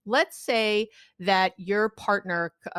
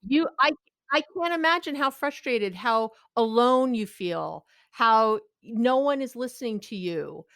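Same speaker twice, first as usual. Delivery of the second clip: empathic validation. Shown as a demonstration.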